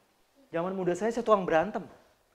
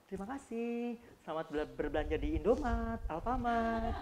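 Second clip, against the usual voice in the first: pleasant cashier thanks; 2 semitones higher, 4 dB quieter than usual. Retold or imitated. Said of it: "harus enak".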